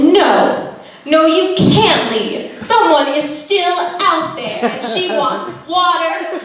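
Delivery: slow, high pleading; mock plea. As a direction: beg them to wait, hammed-up. Pleading about herself.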